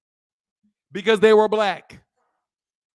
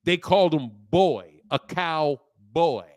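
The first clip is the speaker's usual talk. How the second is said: put-on slow, low "cowboy", split to show the "boy"; stress on BOY; 5 semitones lower than usual. Shown as a demonstration. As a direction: pull "cowboy" apart slowly as cow, boy. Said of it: "That's your hint right there".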